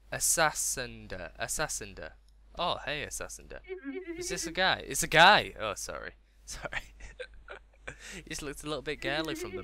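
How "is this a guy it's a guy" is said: high exclamation, growing louder; surprised. Real, not acted. Gamer realising the character's a guy, surprised.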